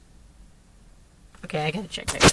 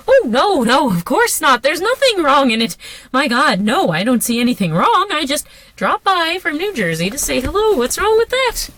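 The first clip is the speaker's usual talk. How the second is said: flustered; 4 semitones higher than usual. Acted. Flustered nervous denial.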